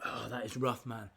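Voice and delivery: talking with a burning mouth; strained words through chili heat; mouth full of hot food. Real, not acted. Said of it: "my mouth is on fire".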